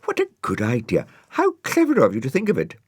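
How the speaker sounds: high, loud and fast with delight; a girl thrilled by a clever idea; bursting with excited praise. A narrator's reading. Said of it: "Florence delighted".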